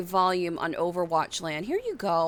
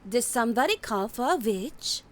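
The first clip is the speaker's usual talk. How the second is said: Mercy voice; 2 semitones higher than usual. Retold or imitated. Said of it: "What was the other one I can do?".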